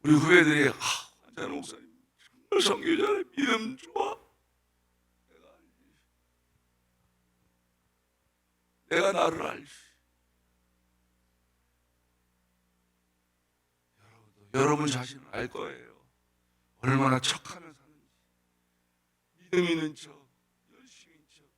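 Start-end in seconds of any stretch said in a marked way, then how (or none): 0.7-4.2 작고 높은 목소리로 감탄하는 흉내; 남들이 소곤대며 칭찬하듯. Acted. 후배들의 감탄을 흉내. 5.3-21.4 아주 작고 나직하게; 혼잣말처럼 소리를 낮춰 자신을 돌아보듯; 나직한 성찰. Real, not acted. 자기 성찰로 목소리를 낮춤.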